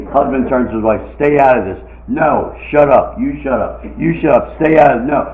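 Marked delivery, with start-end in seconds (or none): 1.2-5.3 louder bickering married couple; mock arguing. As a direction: play a heated back-and-forth spat. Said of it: "They're arguing".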